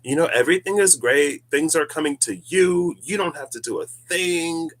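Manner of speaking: high, loud, put-on reassuring voice. Imagined guide telling listeners everything is great, mock soft-voiced reassurance. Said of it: "someone with a softer voice who will be like".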